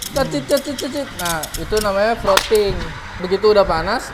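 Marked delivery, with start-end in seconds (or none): 0.1-1.1 high squeaky cecit sound; squeaky milk noise. Shown as a demonstration. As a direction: imitate the steam wand squeak. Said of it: "ada bunyi tuh".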